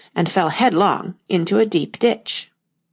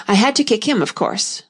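very serious; 4 semitones higher than usual. Acted. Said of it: "the knight said very seriously".

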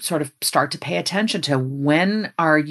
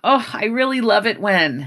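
positive inner voice; 6 semitones higher than usual. Acted. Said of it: "on the positive side, it's that voice going".

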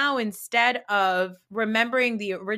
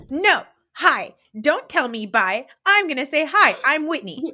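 put-on higher, louder goofy drunk voice; mimicking Whitney; 5 semitones higher, 5 dB louder than usual. Host mocking drunk Whitney's reply, high and goofy. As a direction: play her as a silly drunk.

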